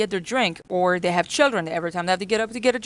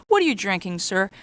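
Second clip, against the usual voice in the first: polite refill question; 4 dB louder than usual. Shown as a demonstration. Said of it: "you go to their table and say".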